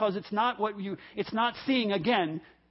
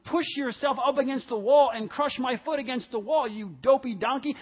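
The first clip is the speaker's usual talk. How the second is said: higher-pitched, exasperated scolding; acted, worked-up rant at a donkey; ticked-off Balaam; 4 semitones higher than usual. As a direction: chew out the donkey in frustration. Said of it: "He's ticked".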